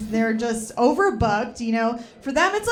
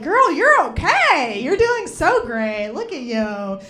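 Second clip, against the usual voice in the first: cheering friend; 3 semitones higher, 5 dB louder than usual. Retold or imitated. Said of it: "anti-bangs is like".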